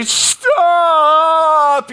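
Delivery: high, urgent yell of "Stop"; retold shout. Pastor reliving yelling at his dogs to stop, high and urgent. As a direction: call after escaping dogs. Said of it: "I try to stop and say".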